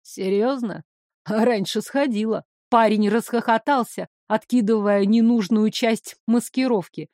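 ниже, самодовольно и насмешливо; смакуя чужой страх; насмешливый злодей. Acted. (злодей насмешливо смакует слова)

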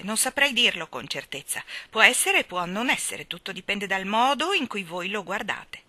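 curt, grudging answer, pitched a little up; unkind voice. Acted. Round woman answering the governess unkindly. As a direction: make the answer unfriendly and short. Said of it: "con una voce poco gentile".

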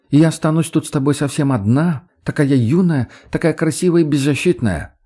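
томный голос. Acted. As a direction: purr it like a helpless beauty. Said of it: "томным голосом тянет она". (томно, нараспев)

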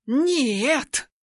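high angry refusal. A narrator's reading. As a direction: snap a flat no at him. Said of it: "гневно отвечает девушка".

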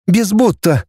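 listless irritated grumble. A narrator's reading. Наташа corrects her companion, listless and irritated. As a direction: grumble it with tired annoyance. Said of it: "буркнула Наташа, вялая и раздражённая".

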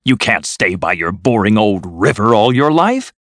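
high, eager persuasion; insistent coaxing. A narrator's reading. Toad pleads with Rat to come, insistent and high. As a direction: urge him on, swelling at the end.

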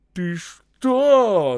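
high, loud challenge; shout. A narrator's reading. Боев confronting Осип, shouting. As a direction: shout it in sharp disbelief. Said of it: "закричал Боев Осипу".

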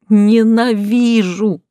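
high, long-drawn wail of hate; howling. A narrator's reading. Tearful heroine howls her hatred at the director, high wail. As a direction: stretch it into a high, loud howl. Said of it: "взвыла я".

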